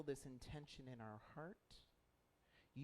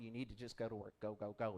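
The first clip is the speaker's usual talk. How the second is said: devil voice; 5 semitones lower than usual. Retold or imitated. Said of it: "Devil's going".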